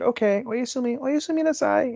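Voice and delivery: very high, cutesy anime good night; put-on sweet anime girl voice; anime wife impression. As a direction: pitch it way up, rising into a squeak.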